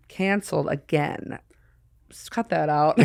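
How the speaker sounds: whispered aside. Real, not acted. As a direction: whisper it off-mic to the editor.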